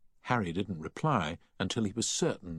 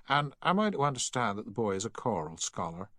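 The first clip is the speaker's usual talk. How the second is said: higher, lightly voiced formal enquiry; officious shop assistant; 4 semitones higher, faster than usual. Shop assistant questioning a mother about her son, lightly officious.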